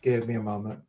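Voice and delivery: distant, boxy muffled voice; inside a box. Real, not acted. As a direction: far off inside a big box. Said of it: "sounds like you're in, like, a great big".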